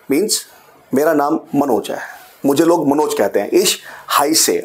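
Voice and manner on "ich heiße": heiße said as "hi-se", ei like English hi. Shown as a demonstration. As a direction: start heiße with the sound of hi, then se. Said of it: "अब pronunciation क्या है? हाय से।".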